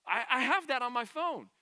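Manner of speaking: high, loud Southern lady impression; Southern accent. Preacher repeating the plane passenger's line, Southern accent. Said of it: "most southern accent we, I've heard in a long time".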